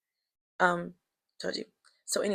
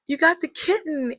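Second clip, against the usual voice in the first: surprised; 8 semitones higher, 3 dB louder than usual. Retold or imitated. Seeing the kitten.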